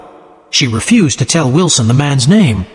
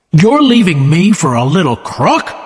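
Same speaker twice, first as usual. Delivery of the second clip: a lightly raised mock shout, only a bit higher; 4 semitones higher than usual. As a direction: voice Tom's accusation as a mild, understated shout. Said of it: "Tom shouted".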